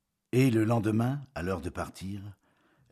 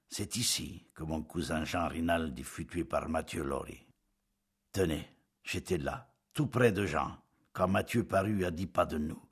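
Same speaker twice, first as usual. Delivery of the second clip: put-on monotone accent. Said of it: "de son accent monotone".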